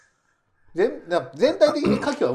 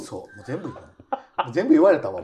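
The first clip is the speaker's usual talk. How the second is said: laughing. Real, not acted. Laughing at overlap.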